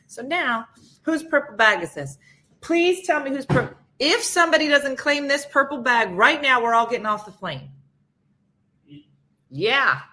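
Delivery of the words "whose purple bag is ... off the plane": stern announcement. Retold or imitated. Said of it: "comes over and says".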